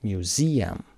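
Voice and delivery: myu-ZI-um, middle of میوزیم stressed; stress on middle syllable. Shown as a demonstration. Teacher models museum stress, ZI stressed in میوزیم. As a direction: lean on zi in میوزیم. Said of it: "استرس قسمت وسط".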